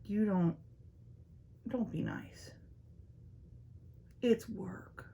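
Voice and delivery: grumbling whisper. Retold or imitated. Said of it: "I hate that".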